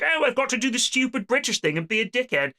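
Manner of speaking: a hint of a silly pompous Brit; pig-headed British officer. British tank commander ignoring American advice, lightly voiced pig-headed officer. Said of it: "He's like".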